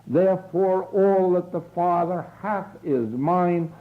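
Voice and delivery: slow reverent affirmation. Acted. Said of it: "but you will say".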